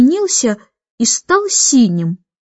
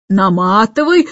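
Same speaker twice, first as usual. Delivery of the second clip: keeper's command; 3 semitones lower than usual. A narrator's reading. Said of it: "скомандовал смотритель".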